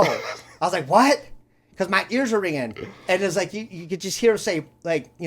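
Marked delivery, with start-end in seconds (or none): 0.9-1.2 high, loud questioning yelp; mock deafened shout. Storyteller replaying his answer with ringing ears, mock deafened shout. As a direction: shout it back as if half deaf.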